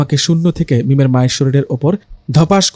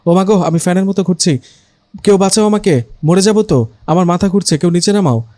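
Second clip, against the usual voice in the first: higher, pleading cry for help while spinning; panicked cry for help; 4 semitones higher than usual. Acted. (আতঙ্কিত চিৎকার)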